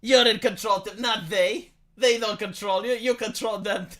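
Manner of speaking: a hint of a tempter insisting; evil inner voice. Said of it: "the evil voice inside Tim's".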